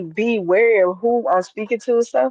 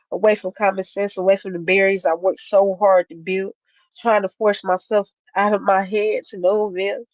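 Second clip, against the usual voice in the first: measured spoken word delivery, lightly cadenced; spoken word poem. Acted. Poet performs her piece Vulnerability for the crowd, spoken word cadence. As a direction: perform the poem with steady rhythm.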